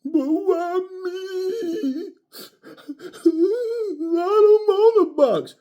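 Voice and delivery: high, slow, whiny fake sobbing voice; mock crying. Mimicking a crying boxer, high slow whiny mock sobbing. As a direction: blubber like a crybaby fighter. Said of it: "he was choked up too".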